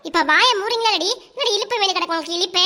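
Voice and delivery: scolding through laughter. Real, not acted.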